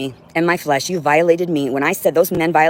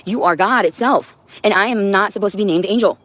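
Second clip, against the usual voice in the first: quoting Angel; 3 semitones higher than usual. Retold or imitated. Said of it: "she was like".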